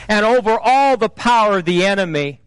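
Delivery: lightly imitated movie-hero threat speech; a preacher's attempt at a measured, menacing warning; deliberate, declaimed defiance addressed to the devil; Liam Neeson. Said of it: "do it in Liam Neeson's voice".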